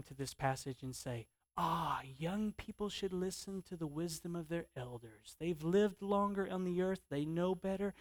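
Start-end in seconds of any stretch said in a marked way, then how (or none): 1.5-7.9 soft mock moralizing. Voices the tempting moral lesson.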